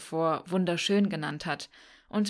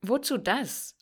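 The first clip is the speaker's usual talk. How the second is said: a higher, disbelieving question; mild disbelief, pitched up; incredulous; 4 semitones higher, slower than usual. A narrator's reading. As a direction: ask it as if the idea makes no sense. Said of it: "fragt Tick ungläubig".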